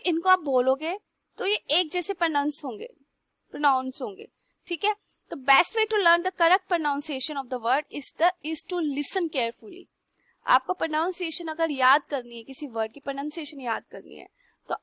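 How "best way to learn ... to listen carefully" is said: slow emphatic teaching. Shown as a demonstration. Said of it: "teacher stating the key rule".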